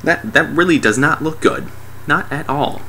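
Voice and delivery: high, hesitant comic voice; puzzled onlooker. Retold or imitated. Guy studying the blue lines, mock puzzled. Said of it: "just looking at it like".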